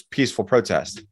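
dry, sarcastic "so-called" peaceful protest; air-quote sarcasm. Retold or imitated. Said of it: "I'm using air quotes".

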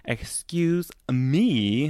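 drawn-out, very slow excuse me; slow rude old-lady excuse me. Retold or imitated. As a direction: stretch it out with mock rudeness. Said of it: "but she said it much more rude".

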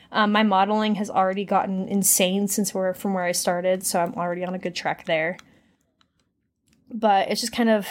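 breathless, catching air between words; talking while short of breath. Real, not acted. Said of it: "sorry, I'm out of breath".

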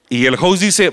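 normal talking voice

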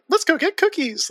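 put-on high, bubbly anime girl; Usagi voice. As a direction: chirp it like a cheerful anime heroine. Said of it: "when Usagi is like".

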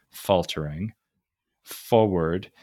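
"faltering" and "forward" each hit on the first syllable, drawn out; stressed as trochees. Shown as a demonstration. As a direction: tap out the feet: FAL-tering, FOR-ward. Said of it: "you have to read as a trochee".

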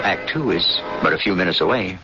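ordinary talk, nothing marked

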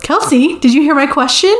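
mock-insistent mom seeking attention; prodding mom. Retold mom demands inattentive woman's attention.

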